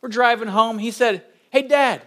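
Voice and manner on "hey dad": put-on picked-up Southern accent. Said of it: "around people with an accent".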